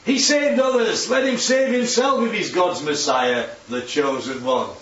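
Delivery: a rulers' taunt, sneered up high; sneering. Acted. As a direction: mimic the rulers' scornful jeer. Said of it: "They sneer".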